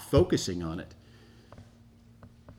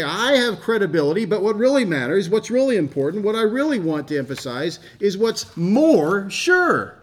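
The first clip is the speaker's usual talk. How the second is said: raised, louder voice of Peter insisting; Peter, emphatic; 8 semitones higher, 6 dB louder than usual. Retold or imitated. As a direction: proclaim it as Peter, higher and louder. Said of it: "Peter would say".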